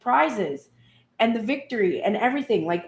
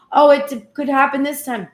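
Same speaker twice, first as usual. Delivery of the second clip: higher, louder sudden hope; hopeful squeal; 5 semitones higher, 7 dB louder than usual. Retold or imitated. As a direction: jump up with fresh hope. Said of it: "hopeful inner voice".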